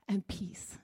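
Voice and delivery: soft breathy whisper of peace; gentle whispered peace. Real, not acted. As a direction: breathe the word out. Describing still lake.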